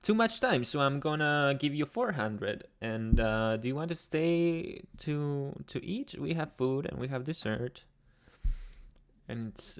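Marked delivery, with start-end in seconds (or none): 0.0-7.8 lightly voiced friendly host, higher; a hint of a kind, eager host. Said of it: "He was like".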